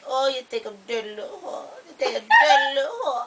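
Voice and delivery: imitated Chinese accent breaking into laughter; caricatured Chinese accent; mock Chinese accent. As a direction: put on a mock Chinese accent, then crack up. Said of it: "turn Chinese and be like".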